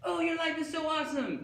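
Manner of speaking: gushing high falsetto; a pop star. Acted. Imagined pop star admiring his life, squealed falsetto gushing. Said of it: "And she'd be like".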